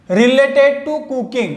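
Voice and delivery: each word drawn out; very slow. Shown as a demonstration. Teacher giving the English meaning very slowly. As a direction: say related to cooking very slowly. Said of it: "slow English gloss".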